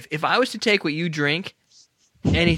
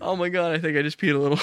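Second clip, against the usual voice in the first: after laughing hard. Real, not acted. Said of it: "let me compose myself".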